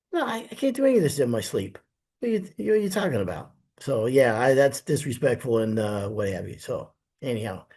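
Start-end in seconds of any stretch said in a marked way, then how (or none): 0.1-3.5 much higher, fast, mock-outraged reply; incredulous retort. Contractor retelling his answer to a customer, incredulous and fast. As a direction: throw the refusal back at him, baffled.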